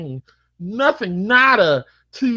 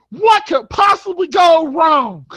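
high loud slow mock scream; imitating Bubsy screaming; 8 semitones higher, 5 dB louder, slower than usual. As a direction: yell his slogan in your ear.

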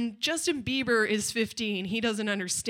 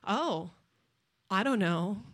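passive aggressive; 5 semitones lower, slower than usual. Retold or imitated. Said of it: "passive aggressive".

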